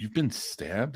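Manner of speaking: shocked, stunned, disbelieving, caught-off-guard voice. Retelling a son's reaction on hearing about a stabbing: imitating a shocked son. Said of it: "he's shocked now".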